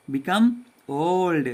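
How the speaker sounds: put-on very slow, syllable-clear "become old"; a teacher modelling each word slowly; slow model reading. Shown as a demonstration. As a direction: spell it out slowly for the class to follow. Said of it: "अब फिर से पढ़ते हैं".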